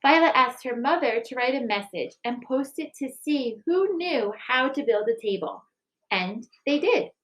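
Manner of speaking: gentle picture-book reading, even and clear; story narration. A narrator's reading. Teacher reading a picture book to the school, gentle narration. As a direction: read it like storytime for children.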